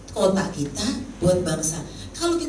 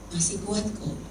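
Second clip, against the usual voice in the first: soft, understated reassurance; gentle voice; 5 dB quieter than usual. Retold or imitated. Holy Spirit reassuring her after the call, softly gentle. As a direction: retell a gentle inner prompting. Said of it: "Suara Roh Kudus lembut".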